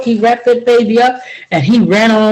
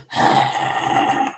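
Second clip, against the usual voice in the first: sleepy sigh; 5 dB quieter than usual. Retold or imitated. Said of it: "one of those sleeps where you go".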